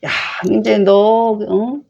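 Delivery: a father's sarcastic "well done"; sarcastic scolding. Retold or imitated. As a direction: scold by pretending to praise. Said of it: "이런 반어적인 표현을 해요".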